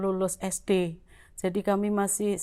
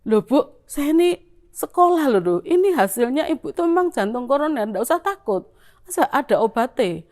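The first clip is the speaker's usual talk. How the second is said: arguing doctor; 4 semitones higher, 5 dB louder than usual. Retold or imitated. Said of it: "saya tuh kayak tukaran".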